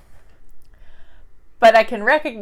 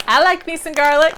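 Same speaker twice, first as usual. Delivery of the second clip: excited; 6 semitones higher, 6 dB louder than usual. Real, not acted. Excited about garlic chip.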